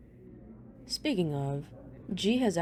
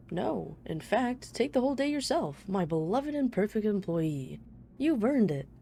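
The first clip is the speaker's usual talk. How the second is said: lightly voiced boss, pitched up; pretend boss; 4 semitones higher than usual. Boss granting a day off in a pretend call, lightly put-on voice. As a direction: play a generous boss, slightly hammed-up.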